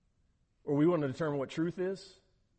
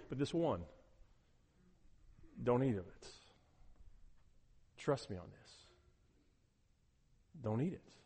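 gentle warning; 5 semitones lower, 11 dB quieter than usual. Pretend. Voicing God's gentle warning.

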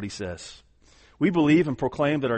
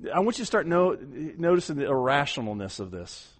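ordinary delivery

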